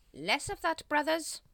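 high, loud telling-off; exasperated leader's reprimand; sharp rebuke. A narrator's reading. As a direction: scold the sniggering underlings. Grand Master rebukes titterers.

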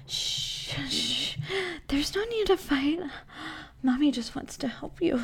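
soft, hushed soothing; quiet the frightened boy gently; a soft shushing murmur; hushing softly. Acted.

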